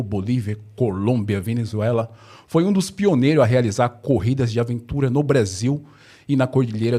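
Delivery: formal podcast guest introduction; apresentação do convidado. Acted. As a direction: read the bio out, measured and presentational. (leitura formal de apresentação)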